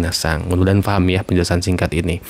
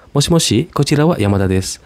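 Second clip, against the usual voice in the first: higher, quicker phone greeting; phone caller voice; 7 semitones higher, faster than usual. Shown as a demonstration. Yamada picking up the phone, higher and quicker. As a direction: answer the phone brightly as Yamada. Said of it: "yang lagi ngomong tuh Yamada".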